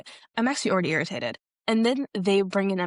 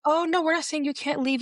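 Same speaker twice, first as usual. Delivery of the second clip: higher-pitched retold reassurance; mock placating; 8 semitones higher than usual. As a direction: imitate staff smoothing things over, pitched up. Staff placate man wanting to leave.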